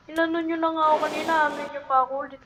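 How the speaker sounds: rapid, run-on griping; fast complaining. Real, not acted.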